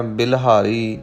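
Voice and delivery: ਬਿਲਹਾਰੀ with "i" in the first syllable; misreading "bilhaari". Retold or imitated. Teacher quotes some readers' slip, ਬਿਲਹਾਰੀ as "bil-haari". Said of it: "ਕਈ ਗੁਰਮੁਖ ਜਨ ਪਾਠ ਕਰਨ ਲੱਗਿਆਂ".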